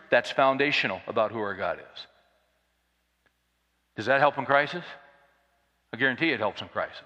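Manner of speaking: ordinary talk, nothing marked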